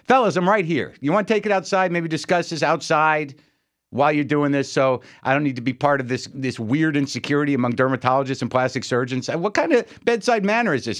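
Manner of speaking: acted-out patient complaint; exasperated protest. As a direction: interrupt doctors in mock exasperation. Retold protest to bickering doctors.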